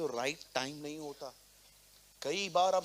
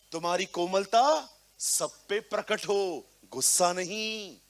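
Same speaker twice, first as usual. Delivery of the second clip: louder proclaiming of तुम्हारी कोमलता सब पे प्रकट हो; emphatic preaching; 4 semitones higher, 7 dB louder than usual. Shown as a demonstration. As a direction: declare it to the whole hall. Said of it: "Be humble, be gentle".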